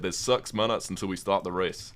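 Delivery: imitated strong New Zealand accent, short i's turned to 'uh'. Retelling a sailing guy's race warning, imitated New Zealand accent. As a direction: do a thick New Zealand accent, slightly botched. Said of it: "very strong New Zealand accent".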